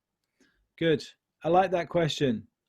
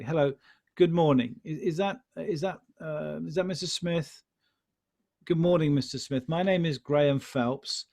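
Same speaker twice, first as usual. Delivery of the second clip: polite caller. Shown as a demonstration. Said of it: "saying your name really clearly and slowly".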